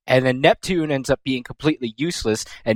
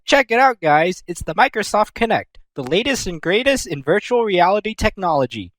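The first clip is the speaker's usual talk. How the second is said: high excited pitchman show-off; salesy Vert; 5 semitones higher than usual. Retold or imitated. Vert showing off the Kinect, mock excited pitch. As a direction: sell it like a hyped gadget ad. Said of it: "she's like".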